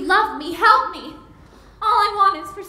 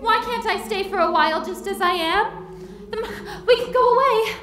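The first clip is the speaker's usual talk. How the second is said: tearful pleading; 7 semitones higher than usual. Acted. Bride pleads to stay home.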